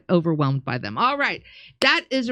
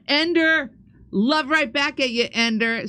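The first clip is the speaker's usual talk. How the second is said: cheerful greeting; 6 semitones higher than usual. Real, not acted. Host warmly thanking viewer.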